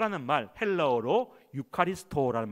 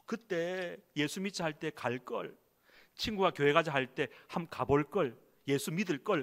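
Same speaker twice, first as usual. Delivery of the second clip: mock regret; 2 semitones higher than usual. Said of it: "지옥 가고 보니까".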